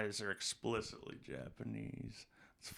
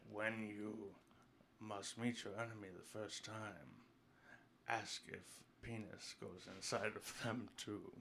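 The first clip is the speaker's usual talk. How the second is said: bad Asian accent; 11 dB quieter than usual. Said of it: "do an Asian accent".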